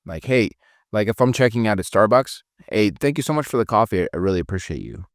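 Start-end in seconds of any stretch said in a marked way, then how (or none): 2.7-5.0 courteous thanks, falling at the end; alpha, not mean. Shown as a demonstration. Customer thanking the Starbucks barista, alpha but not mean. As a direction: thank them with certainty, settling downward. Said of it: "you're being alpha".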